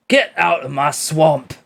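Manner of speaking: put-on slow Scottish-accented ogre line. Joking as the ogre chasing someone off, Scottish accent. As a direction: growl out a Scottish Shrek quote, slowly. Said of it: "how well can you do Scottish?".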